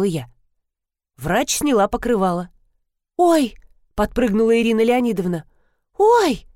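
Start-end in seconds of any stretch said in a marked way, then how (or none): 3.2-3.5 high sharp cry of surprise; startled yelp. A narrator's reading. Irina Leonidovna startled by the red stain, high yelp. 6.0-6.5 very high sharp squeal; startled yelp. A narrator's reading. Irina Leonidovna startled by the red stain, very high yelp.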